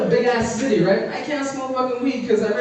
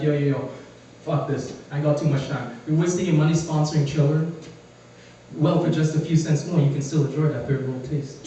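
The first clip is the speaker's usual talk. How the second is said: low, laid-back ad voice; mock commercial pitch; 4 semitones lower, 3 dB quieter than usual. He's doing his own Starbucks ad, lightly voiced low pitchman. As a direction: pitch the coffee like a smooth spokesman. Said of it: "I'd be like".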